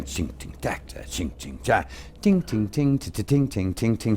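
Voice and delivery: softly mouthed cymbal and drum sounds; quiet ching ting drum imitation; drum noises. Shown as a demonstration. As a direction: tap out the drummer's beat with your mouth. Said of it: "what the drummer is doing".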